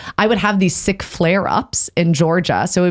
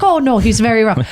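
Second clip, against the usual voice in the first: higher, imitated Irish woman; Irish accent; 4 semitones higher than usual. Friend insisting to a mother in denial, Irish accent. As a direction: insist with a light Irish lilt. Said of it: "I had an Irish accent".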